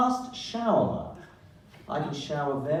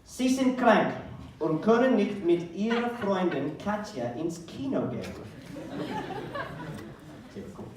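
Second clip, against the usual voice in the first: reading exam instructions. Acted. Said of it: "here were the instructions".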